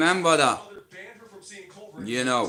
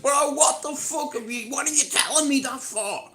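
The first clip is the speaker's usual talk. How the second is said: mock outrage; 10 semitones higher than usual. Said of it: "I was like".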